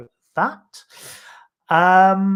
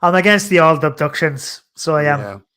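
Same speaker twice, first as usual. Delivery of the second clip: put-on Irish accent; 4 dB louder than usual. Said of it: "I'm gonna keep doing that accent".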